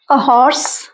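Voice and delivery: "a horse" drawn out slowly with a clear h; slow it down for learners; slow teaching model. Shown as a demonstration. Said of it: "तब अ का use होता है". (धीमे, साफ़ "a horse")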